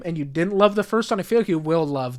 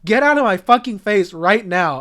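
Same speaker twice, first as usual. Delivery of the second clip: raised, louder imitation of an irate parent; mock angry dismissal; 4 semitones higher, 5 dB louder than usual. Third parent dismisses the child, hammed-up angry retort. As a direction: bite back in mock anger.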